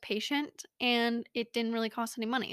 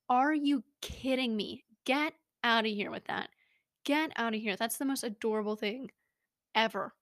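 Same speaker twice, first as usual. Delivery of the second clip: excited gushing. Acted. Gushing over a pet choosing you.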